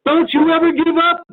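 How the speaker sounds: pitched well up, incredulous and playful; exasperated disbelief. Retold or imitated. Prospect laughing in disbelief at the persistent agent, high. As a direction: throw up your hands at a pest who never quits.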